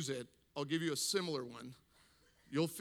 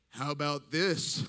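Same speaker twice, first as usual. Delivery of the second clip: louder, defiant comeback; 6 dB louder than usual. Retold or imitated. Mother answering father's demand to stop the song, defiant. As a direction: throw it out as a challenge. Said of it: "I think out of defiance".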